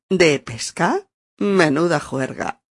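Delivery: sarcastic. Acted. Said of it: "con ese tono".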